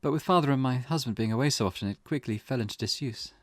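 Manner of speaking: measured, lightly acted inner monologue; character's lightly acted recollection. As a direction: lightly voice a wife recalling family life. Voices game character's recollection.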